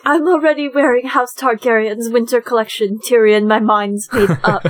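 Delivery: a lightly put-on British accent, half-hearted; mock-posh British, barely there; bad British accent. Friend quoting a reviewer's Daenerys in British accent. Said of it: "That's my really bad British accent".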